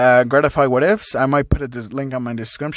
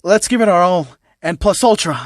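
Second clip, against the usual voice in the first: fired-up cheer; 5 semitones higher, 4 dB louder than usual. Acted. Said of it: "Izuku saying".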